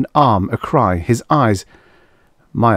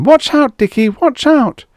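high, loud warning shouts; frantic warning; 6 dB louder than usual. A narrator's reading. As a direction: yell a desperate warning. Warning boy near the ledge.

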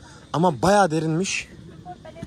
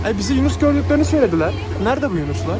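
exasperated; 6 semitones higher than usual. Real, not acted. Frustrated, no dolphins found.

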